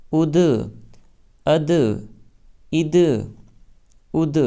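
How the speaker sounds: اد with the د rebounding; bouncing qalqala. Shown as a demonstration. Teacher drilling students: bouncing اد. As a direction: let the د in اد spring back. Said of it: "اچھل جائے گی".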